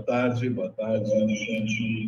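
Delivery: slow, echoing, delayed copy of the voice; cathedral echo. Real, not acted. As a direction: voice bouncing back from a big hall. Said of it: "O que que tá com eco aqui?".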